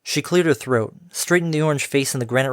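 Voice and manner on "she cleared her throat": ordinary delivery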